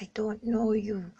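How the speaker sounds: slow, breathy denial; whispered denial. Retold or imitated. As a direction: whisper it slowly like you're hiding. Denying she knows him.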